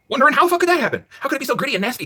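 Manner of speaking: high, loud disbelieving yell; outraged shout. Real, not acted. Outraged question about dirty grill.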